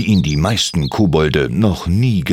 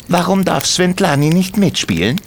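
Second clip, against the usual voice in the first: kobold Timmy; 12 semitones higher than usual. Acted. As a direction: gently contradict her as a tiny goblin. Timmy questions the children.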